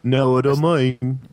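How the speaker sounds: slow, drawn-out stab at Scouse; retry the Liverpool accent, stretching the words; attempted Liverpool accent. Co-host correcting the impression, slow Liverpool accent attempt. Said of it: "that's not Liverpool".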